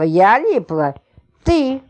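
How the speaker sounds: mock indignant shout. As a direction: hurl it back at him. Spouses quarrel before fighting.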